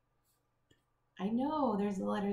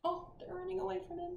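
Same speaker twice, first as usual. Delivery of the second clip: mock surprise; 9 semitones higher, faster than usual. Reader points out the animals fleeing, high mock surprise. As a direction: gasp it out to the children.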